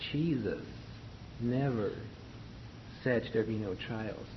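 "Jesus" set apart by a pause, then "never" on its own; weight on "Jesus", falling away after it; emphasis on JESUS. Shown as a demonstration. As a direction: stress "Jesus", pause, then go on evenly with "said there be no trials". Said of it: "more emphasis on the word Jesus".

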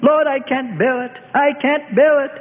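high, anguished outcry; bitterly weeping. A narrator's reading. Peter begging forgiveness for his denial, anguished. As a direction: plead and lament high up, in despair. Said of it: "And Peter wept bitterly".

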